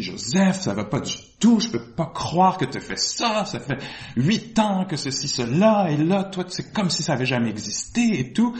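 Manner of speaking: retold agitated reproach, pitch climbing; énervé, blessé. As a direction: act out a hurt, exasperated complaint. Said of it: "je me souviens que j'étais énervé, blessé". (reproche énervé et blessé, rejoué)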